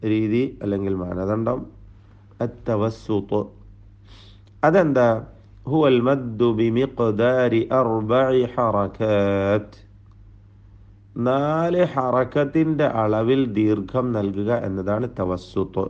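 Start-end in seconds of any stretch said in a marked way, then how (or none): 5.7-9.8 slow, measured Arabic definition read like Quran recitation. Shown as a demonstration. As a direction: draw out each Arabic word carefully, slowly. Quoting Arabic tajweed definition. (പതുക്കെ, അറബി പാരായണ ശൈലിയിൽ)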